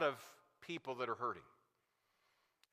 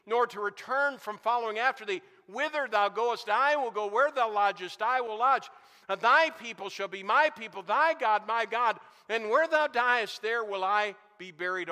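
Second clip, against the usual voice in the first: louder, higher, declaimed Bible verse; ringing pulpit declamation of scripture; preached scripture recitation; 3 semitones higher, 6 dB louder than usual. Acted. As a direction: recite the verse with mounting force. Recites scripture with rising force.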